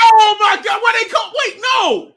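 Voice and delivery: high, loud shout of shock. Real, not acted. Fan yelling at a bad call on TV, shocked shout. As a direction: yell it at the screen in disbelief.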